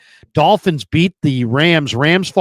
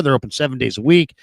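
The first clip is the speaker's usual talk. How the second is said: normal talking voice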